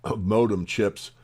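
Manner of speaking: "modem" slowed right down as a correction; slow, deliberate "modem chips" after the slip; careful correction. Real, not acted. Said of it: "excuse me".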